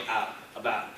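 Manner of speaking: "out" and "about" as mimicked by Americans; imitated pronunciation. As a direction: mimic their version of "out, about". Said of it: "Or where they go".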